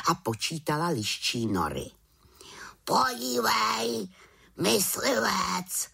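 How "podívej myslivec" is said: high, slow croaking whisper; raven croak. Acted. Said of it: "zakrákal po chvíli Havran". (krákavý havraní hlas)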